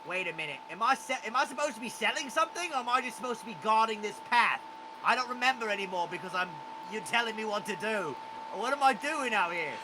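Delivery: a goblin losing track of his job; confused goblin. Acted.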